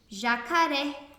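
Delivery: slow "jacaré" with the last syllable RÉ punched; stress on final RÉ. Shown as a demonstration. Teacher showing pupils the strongest syllable, stress on RÉ in "jacaré". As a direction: lean hard and long on the RÉ of "jacaré". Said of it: "o ré é a sílaba mais forte".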